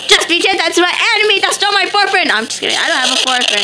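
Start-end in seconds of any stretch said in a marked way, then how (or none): 0.1-2.3 high, rushed mock accusation; mock outrage. Player jokingly accusing a game enemy, mock outrage. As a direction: blurt it high and fast, as a joke. Joke accusation, then "just kidding.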